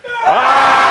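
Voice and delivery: high, loud laughing scream; group scream. Real, not acted. Teacher screams together with the group on the count, loud and high. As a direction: let out one big yell on three. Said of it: "On three".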